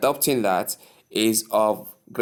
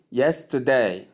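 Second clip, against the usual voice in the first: yesterday as YES-terday, falling at the end; first-syllable stress. Shown as a demonstration. Teacher having learners repeat yesterday, first syllable stressed. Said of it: "stress is placed on the first syllable".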